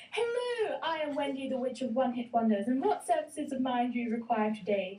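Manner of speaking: a lightly voiced witch exclaiming. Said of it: "she exclaimed".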